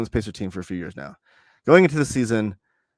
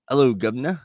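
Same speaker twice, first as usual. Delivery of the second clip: bad British accent. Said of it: "I have a terrible accent".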